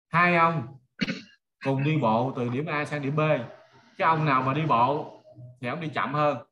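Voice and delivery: ordinary delivery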